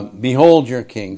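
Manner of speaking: understated sarcastic jab; dry mock presentation. Pilate jeering the Jews, mildly sarcastic. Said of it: "Pilate's being sarcastic".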